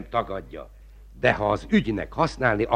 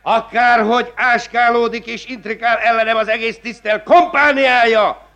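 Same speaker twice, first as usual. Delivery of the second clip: high and loud, slowing on the last word; indignant rant; 9 semitones higher, 3 dB louder than usual. Acted. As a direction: rail against the plotters. Magistrate rants to the clerk.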